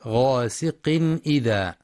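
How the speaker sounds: غاسق إذا said ghasiqin 'idha, clear n before the hamza; clear tanwin. Shown as a demonstration. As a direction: sound the n of غاسق without nasal hold. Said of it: "بيان الإظهار الحلقي للتنوين".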